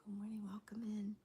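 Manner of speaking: unvoiced whispered greeting; whispering. Real, not acted. Greeting viewers joining live.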